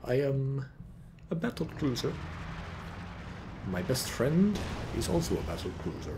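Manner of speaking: lightly voiced deadpan ship captain; a hint of the battlecruiser, played for laughs. Caster invents battlecruiser lines in a light captain voice. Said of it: "what else does he say?".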